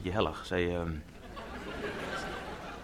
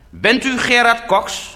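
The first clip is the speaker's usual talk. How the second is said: high, slow, probing question; puzzled fellow passenger; 6 semitones higher, slower than usual. Retold or imitated. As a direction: imitate a suspicious stranger, drawn out. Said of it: "fronste zijn wenkbrauwen en zei".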